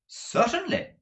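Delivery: sweet but firm wife; lightly voiced fond wife; Madame's voice. A narrator's reading. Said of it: "returned the lady".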